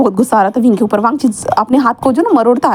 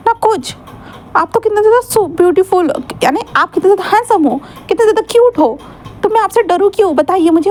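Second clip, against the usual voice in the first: put-on a slightly higher, teasing boy's voice; lightly voiced cheeky student; 4 semitones higher than usual. Cheeky student mocking his mafia teacher, lightly voiced.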